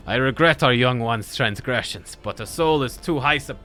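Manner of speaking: loud, proud guardian elder; stern elder voice. Acted. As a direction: declare it like a protective chieftain. Voices elder NPC defending youths.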